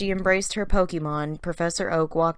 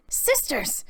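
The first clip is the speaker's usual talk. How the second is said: joyful greeting; 10 semitones higher than usual. Acted. Reunion with sisters.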